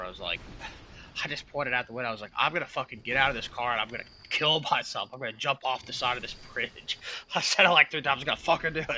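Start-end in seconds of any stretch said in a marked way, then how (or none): 2.4-7.0 retold rant, a bit louder and higher; mock angry outburst. Retelling own raging outburst in car. 7.2-8.9 loud, high, amused replay of own outburst; laughing retelling. Retold or imitated. Admitting an outburst in the car, laughing loudly. Laughing over retold angry threat.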